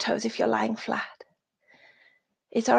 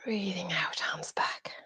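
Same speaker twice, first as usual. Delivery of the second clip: soft exhale cue; 3 semitones lower, 10 dB quieter than usual. Shown as a demonstration. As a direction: draw it out softly like a long exhale. Guiding class through an exhale.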